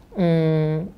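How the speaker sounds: firmly telling her daughter off; mother scolding her daughter for questioning God, lightly stern. Retold or imitated. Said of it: "mamaku langsung marah".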